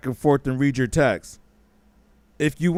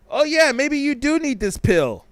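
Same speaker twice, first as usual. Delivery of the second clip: gullible viewer; 9 semitones higher than usual. Retold or imitated. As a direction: act like a sucker sold on the pill. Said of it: "Some of y'all are like".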